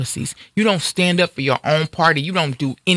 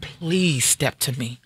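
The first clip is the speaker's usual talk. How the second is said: whisper; 2 semitones lower, slower than usual. Real, not acted. Taunting attackers to step up.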